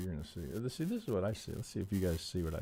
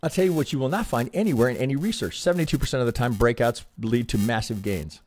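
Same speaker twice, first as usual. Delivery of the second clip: emphatic loud rant; 3 semitones higher, 11 dB louder than usual. Real, not acted. Ranting at chat about trading odds.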